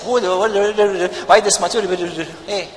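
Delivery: a hint of a sly devil, slow and drawn out; lightly voiced devil grumbling about money; devil's voice. Pastor mimics the devil questioning church giving, slow and sly. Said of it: "you know who's speaking like that? The devil".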